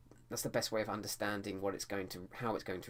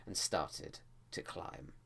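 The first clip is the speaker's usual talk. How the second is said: tense and dramatic. Shown as a demonstration. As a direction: build suspense on the climb. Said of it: "make it sound, like, uh, tense and dramatic".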